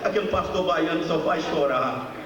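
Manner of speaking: mais aguda, falando rápido e sentido; pregação emocionada. Real, not acted. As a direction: confesse a luta com Deus com emoção. Pregador emocionado fala com Deus. (pregação emocionada)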